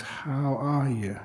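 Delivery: slow, gently asked question; unhurried, sincere check-in; caring question. Acted. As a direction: ask it slowly, with care. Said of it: "as if I ask my legs".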